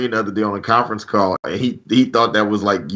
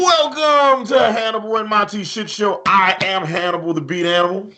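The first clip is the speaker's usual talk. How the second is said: announcer; 8 semitones higher than usual. Real, not acted. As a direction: sing out the welcome like an announcer. Host performs the show intro.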